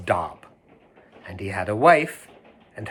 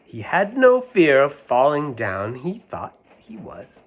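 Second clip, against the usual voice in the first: rhyme reading; 2 semitones higher, slower than usual. Acted. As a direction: draw it out, let it float away. Reads rhyme aloud.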